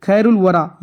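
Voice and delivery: "खैरुल वरा" with the l ending खैरुल sounded; laam pronounced. Shown as a demonstration. Teacher showing a qamari example, "खैरुल वरा" with l pronounced. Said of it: "इसमें लाम का तलफ़ुज़ है".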